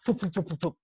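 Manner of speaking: imitated charging rooster noise; rapid foop noises. Comic retelling of a rooster charging, imitated noise. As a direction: puff out quick, repeated foops. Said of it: "I just hear".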